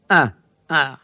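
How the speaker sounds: slow, low, menacing monster growl. Acted. Hairy monster threatens passers-by, slow low growl. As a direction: drag out each word like a hungry beast.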